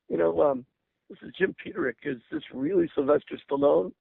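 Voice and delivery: nervous, halting ask, pitch jumping high at his own name; hesitant and unsure, checking it's really him; tentative. Retold or imitated. Young songwriter nervously calling his hero back, tentative. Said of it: "very tentatively I said".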